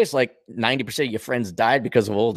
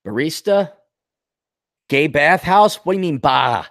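ordinary talk

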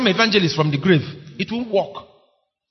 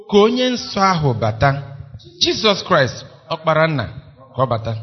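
hymn recital; 4 dB louder, faster than usual. Acted. Stanza one of the hymn.

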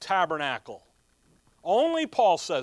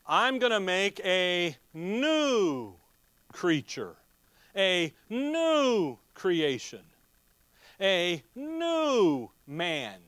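slow, drawn-out proclamation with each new stretched; lightly voiced God revealing a hidden plan; preacher voicing God, slow and grand; voice of God announcing; slower than usual. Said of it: "he comes along and he says".

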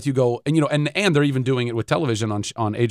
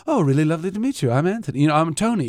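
Anthony Hopkins impression; 2 semitones higher, faster than usual. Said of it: "this is a horrible Anthony Hopkins impersonation".

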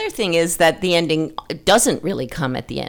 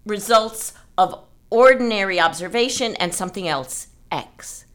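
measured reading of a literary quote; passage read aloud; 2 semitones higher than usual. Acted. Reading an author's passage to the writing group, measured. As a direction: read the excerpt with care, evenly.

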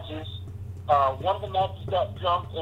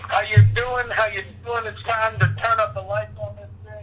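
calling in on a bad phone line; on speakerphone; 3 semitones higher than usual. Real, not acted. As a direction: voice over a speakerphone. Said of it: "Hey, we're losing you".

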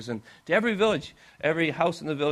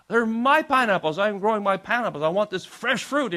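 raised, indignant shout, pitched up; angry missionary; 6 semitones higher, 5 dB louder than usual. Retold or imitated. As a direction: holler at thieves in mock outrage. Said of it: "he would get so angry".

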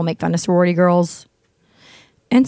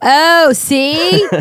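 delighted; 8 semitones higher, 5 dB louder than usual. Real, not acted. Delighted at co-host's pun.

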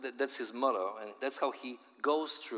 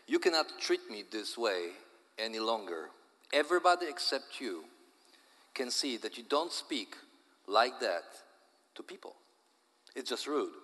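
angry. Acted. Wife scolding her husband.

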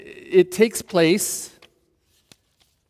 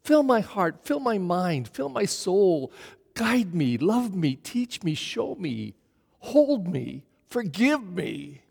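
soft, pleading prayer, slowing at the end; intimate prayer; 5 dB quieter, slower than usual. Shown as a demonstration. A preacher showing the congregation how to pray, softly. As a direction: pray it softly, drawing God close. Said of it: "shouldn't we say".

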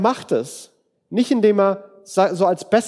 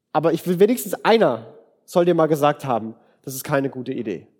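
loving honesty; 3 semitones lower than usual. Pretend. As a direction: say it tenderly but firmly. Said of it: "zu sagen".

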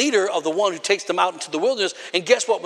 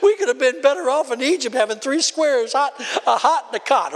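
mildly hammed-up grumbling of the Israelites; imitated griping, a little upset; mock complaining. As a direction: complain like a fed-up crowd, half in jest. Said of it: "Murmuring, complaining, upset with life".

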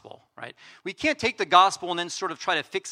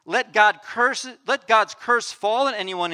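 louder, slow and emphatic; angry pronouncement; 4 semitones higher, 5 dB louder, slower than usual. Acted. Preacher reading Paul's curse to the Galatians, slow and loud. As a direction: call the curse down with force. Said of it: "He's, he's angry".

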